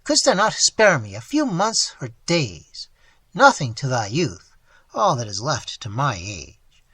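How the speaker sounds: anguished lament. Acted. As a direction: pour out hurt and betrayal.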